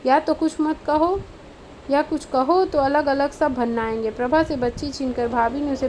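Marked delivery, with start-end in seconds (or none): 0.1-4.1 exasperated escape. Acted. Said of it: "जैसे जान छुड़ाकर भागते हुए बोला".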